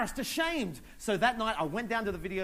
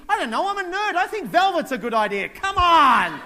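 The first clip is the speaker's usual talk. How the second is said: nerdy self; 11 semitones higher, 13 dB louder than usual. Acted. His nerdy self answering.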